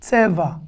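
"Tseva" with the final A held; lengthened A. Shown as a demonstration. Teacher showing learners how to lengthen the final A of "Tseva". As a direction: stretch the A at the end of "Tseva". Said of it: "On rallonge le A".

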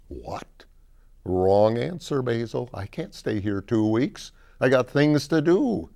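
put-out complaint, rising to a protest; indignant protest. Acted. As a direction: object with mock indignation. Samantha protesting at staying two weeks.

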